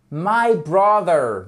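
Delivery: slow answer, stressing my; slow stressed answer; slow model answer. Shown as a demonstration. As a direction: answer slowly, leaning on my.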